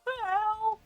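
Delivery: high, mock yowling "ow, ow"; imitating the cat's high "ow, ow" in the tub. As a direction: yowl like the wet cat. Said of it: "he's obviously doing his".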